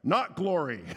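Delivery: mock-annoyed pastor cutting in; imitated exasperated rebuke; annoyed correction. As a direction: correct the interrupter firmly, pitch dropping off. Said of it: "looks annoyed and says".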